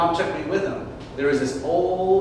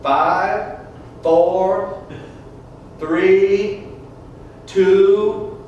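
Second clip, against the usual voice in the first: counting down, growing louder; countdown; 2 semitones higher, 4 dB louder, much slower than usual. Retold or imitated. Judge counting down at the brother, mildly building. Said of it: "he looked at my brother and said".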